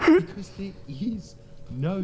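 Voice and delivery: emphatic retort. Real, not acted. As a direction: hammer it home. Punchline retort to commenters.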